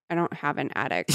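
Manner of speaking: low, soft, weary deadpan; resigned. Acted. Worn-down Becca correcting her friend's false memory, resigned. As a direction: give up and state it quietly. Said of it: "so resigned that she just goes".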